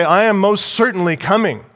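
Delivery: a preacher insisting the king will return; emphatic. Shown as a demonstration. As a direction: hit am hard like a sure promise. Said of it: "It's emphatic".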